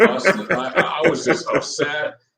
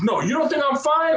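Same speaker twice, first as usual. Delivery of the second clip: high-pitched mock come-on. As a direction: tease in a put-on tipsy woman's voice. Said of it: "she goes".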